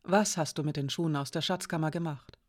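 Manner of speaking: quiet, cautious question; careful. Acted. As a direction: ask gently, not to upset her. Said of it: "fragte sie vorsichtig". (vorsichtig und leise gefragt)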